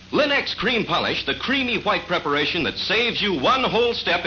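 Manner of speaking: put-on upbeat old radio commercial voice; chipper 1950s ad. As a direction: sell it brightly, announcer style. Radio furniture polish ad read.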